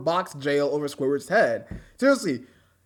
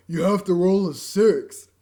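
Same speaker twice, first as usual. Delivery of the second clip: You have to roll a six, slowed and a little louder once more; slow retake; 5 dB louder, slower than usual. Acted. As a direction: repeat the game character's order slowly. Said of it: "I screwed up my line".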